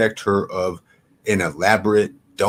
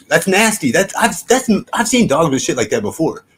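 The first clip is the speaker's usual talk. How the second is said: much higher and louder, grossed out; disgusted; 7 semitones higher, 5 dB louder than usual. Real, not acted. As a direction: recoil at something gross. Disgusted by the dog's skin.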